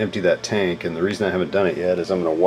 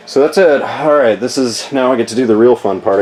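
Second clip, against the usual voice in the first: upbeat and loud, pitched up; excited; 4 semitones higher, 5 dB louder than usual. Real, not acted. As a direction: kick it off with energy. Switches to upbeat task intro.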